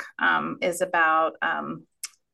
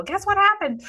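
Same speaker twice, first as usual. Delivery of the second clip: much higher, eager guess what; excited phone greeting; 13 semitones higher, 3 dB louder than usual. Retold or imitated. Mom calling her adult daughter, excited and much higher. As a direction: call it out bright and eager to share news. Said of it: "So I'll call and go".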